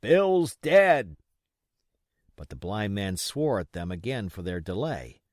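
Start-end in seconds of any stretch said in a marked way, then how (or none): 0.0-1.2 loud, high alarmed call; a pirate calling from indoors, loud; shouting from the house. Acted. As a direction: call the news out from inside. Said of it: "a voice shouting from the house".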